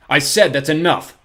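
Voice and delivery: slow menacing warning; growled. A narrator's reading. Poe silences Olaf, growling angrily. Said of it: "Mister Poe growled".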